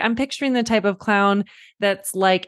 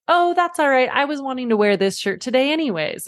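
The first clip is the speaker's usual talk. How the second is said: much higher, breezy mock innocence; playing dumb; 6 semitones higher than usual. Mother to her daughter, clowning about the shirt. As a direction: pretend the shirt is yours. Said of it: "I'll be like".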